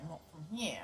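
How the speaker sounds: "here" lifted out of the diaphragm into the nose. Shown as a demonstration. Showing the wrong place to speak from, "here" through the nose. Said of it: "instead of talking through their diaphragms".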